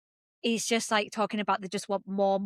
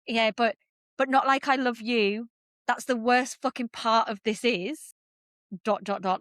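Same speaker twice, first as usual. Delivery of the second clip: imitating his halting confession, with pauses; mildly hesitant, breaking before trailing words; halting delivery. Retelling his love confession to her co-host, haltingly. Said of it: "like, he's pausing".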